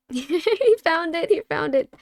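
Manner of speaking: high laughing, slow at first. Real, not acted. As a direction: laugh it out in dismay. Laughing at clip found.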